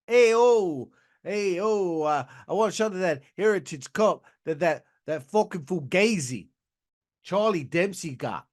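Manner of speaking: lightly put-on New York Italian accent; mock Italian-American accent. Tony asking for a title shot, mock Italian-American accent. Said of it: "the longer I do the accent".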